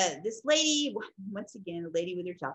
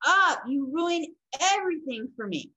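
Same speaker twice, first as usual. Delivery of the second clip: loud, high exasperated outburst, acted; losing it; 5 semitones higher, 5 dB louder, slower than usual. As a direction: play a mom snapping and yelling at her child. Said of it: "she finally loses it".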